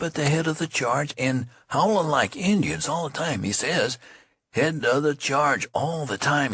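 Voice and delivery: excited gossiping soldier. Acted. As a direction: relish every word of the news.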